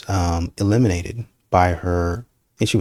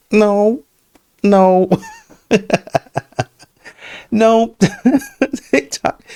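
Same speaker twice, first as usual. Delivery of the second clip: high, loud laughing protest; 13 semitones higher, 6 dB louder, much slower than usual. Real, not acted. Reacting to the clip, laughing high and loud. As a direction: laugh and refuse in disbelief.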